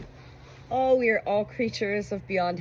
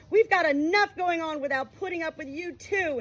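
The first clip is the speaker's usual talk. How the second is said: raised, furious reproach; angry; 9 semitones higher than usual. A narrator's reading. Son snapping at his father over the phone, angry. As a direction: let him have it.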